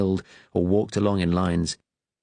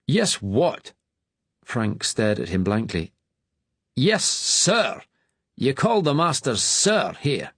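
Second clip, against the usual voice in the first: stern master; 6 semitones higher than usual. A narrator's reading. Master scolds new boy.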